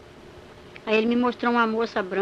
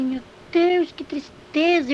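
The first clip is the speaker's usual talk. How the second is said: higher, louder cry with stretched words; dismayed outcry; 4 semitones higher, 4 dB louder, much slower than usual. Retold or imitated. Testifier relives seeing the multitude, dismayed cry. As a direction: exclaim in drawn-out dismay.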